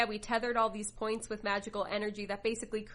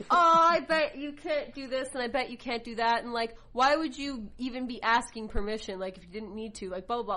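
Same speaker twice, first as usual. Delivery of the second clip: mock taunting; 5 dB louder than usual. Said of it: "he's just shit-talking him".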